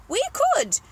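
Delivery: loud, high start, coming down at the end; eager shouting. Acted. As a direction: jump at the offer with a shout. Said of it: "we all shouted".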